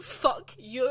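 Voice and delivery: loud retold curse at the teacher; upset outburst. Pupil to teacher while walking away, upset outburst. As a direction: throw it back, loud and upset. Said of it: "because I was so upset".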